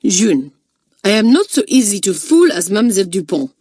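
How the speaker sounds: growing rage. Acted. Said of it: "working herself up into a fine rage".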